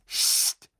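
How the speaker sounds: sudden whispered shush; whispered hush. A narrator's reading. Hermine silencing her friends to listen, whispering. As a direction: hush them with a sharp whisper. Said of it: "flüsterte Hermine plötzlich".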